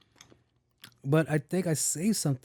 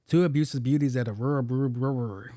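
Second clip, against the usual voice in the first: quicker run stumbling at the end; fumbled tongue twister. Shown as a demonstration. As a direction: rattle it off and trip on brewery. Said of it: "I sound just as dumb as she did".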